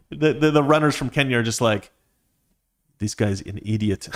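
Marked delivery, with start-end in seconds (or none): 3.0-4.1 put-on half-hearted stab at a Kenyan accent; hint of a bad Kenyan accent; attempted Kenyan accent. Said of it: "I can't do a Kenyan accent".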